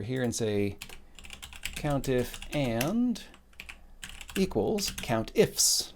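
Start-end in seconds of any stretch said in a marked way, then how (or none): 4.9-5.9 countifs said slowly, final S clearly sounded; stress on final S. Shown as a demonstration. Teacher typing the formula, slow countifs with a clear final S. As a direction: draw out countifs to its closing S. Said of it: "Notice there's an S".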